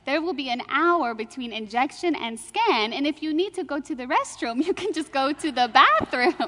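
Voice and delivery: put-on reassuring nurse in an Indian accent. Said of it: "she, with an Indian accent".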